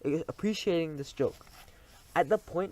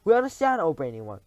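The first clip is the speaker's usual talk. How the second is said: eager cry; 3 semitones higher, 6 dB louder than usual. Acted. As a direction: flatter her eagerly. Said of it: "cried the audience".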